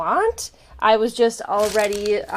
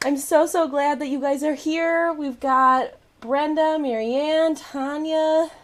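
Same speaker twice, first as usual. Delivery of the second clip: out of breath; 4 semitones higher than usual. Real, not acted. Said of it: "I'm still out of breath".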